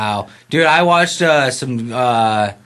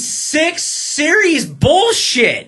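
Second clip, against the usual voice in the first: high, slow exasperated outburst; hammed-up fanboy outrage; outraged rant; 13 semitones higher, slower than usual. Ranting about short comic series.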